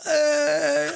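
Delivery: high, loud, drawn-out cheer; long, joyful "eh" at high pitch; happy cheer. Retold or imitated. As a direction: imitate kids cheering over a treat.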